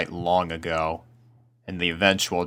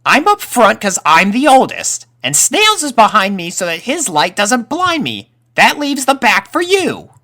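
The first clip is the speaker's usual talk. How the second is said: put-on high, loud boyish colt voice; young colt Snips; 10 dB louder than usual. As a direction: play the eldest colt laying down the plan.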